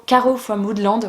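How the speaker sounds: slow English name in a French accent; self-mocked French accent on English. Real, not acted. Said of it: "avec mon super accent".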